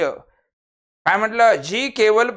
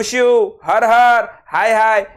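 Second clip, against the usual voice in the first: a lament, voiced a touch louder; a hammed-up wail of sorrow; mock grief cry; 3 semitones higher, 5 dB louder, slower than usual. Shown as a demonstration. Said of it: "हे शोक दाखवतात".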